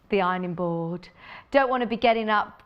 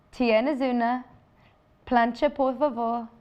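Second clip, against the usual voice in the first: attempted Spanish accent, carefully phrased question. Shown as a demonstration. Presenter re-enacting asking hotel reception for an iron, Spanish accent. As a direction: ask it in your nicest Spanish accent. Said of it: "do it in my nice Spanish accent".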